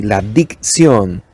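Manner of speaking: "La dicción" said slowly, each syllable separate; slow careful diction. Shown as a demonstration. Teacher repeating the word, slow and clear. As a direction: spell out "dicción" with the mouth. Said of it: "Dicción es pronunciar bien las palabras".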